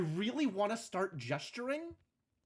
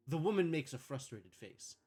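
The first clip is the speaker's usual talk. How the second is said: calm scene-setting read; script narration; 2 semitones lower than usual. A narrator's reading. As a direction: read the stage directions evenly.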